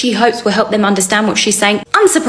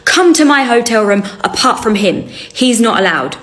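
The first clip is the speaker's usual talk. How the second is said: fake Arabic accent. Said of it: "she says".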